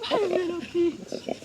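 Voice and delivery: squealing a pet pig's name; excited pet talk. Real, not acted. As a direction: call her name with a burst of delight. Cooing to her pet pig.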